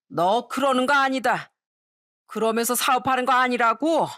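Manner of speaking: lightly acted drunken telling-off; indignant tipsy elder; drunk father-in-law. Drunk father-in-law tells his son off, mildly indignant. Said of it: "만취한 시부가 하는 얘기에".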